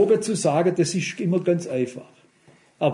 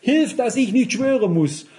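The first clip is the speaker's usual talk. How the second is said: retold cry for help; 6 semitones higher than usual. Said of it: "Ich hab zum Herrn geschrien".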